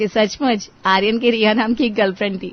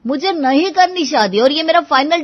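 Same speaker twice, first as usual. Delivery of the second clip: emphatic refusal; 5 semitones higher, 3 dB louder than usual. Acted. Son refuses marriage, ends argument.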